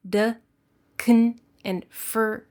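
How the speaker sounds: to as d, can as kn, for as fur; weak forms. Shown as a demonstration. Teacher models weak forms d, kn, fur. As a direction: clip them to d, kn and fur. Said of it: "sound like".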